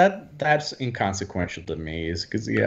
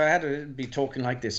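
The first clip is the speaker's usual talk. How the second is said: lightly put-on English accent; English professor accent; 3 semitones higher, 6 dB quieter than usual. Shown as a demonstration. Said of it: "is a English professor living in Scotland".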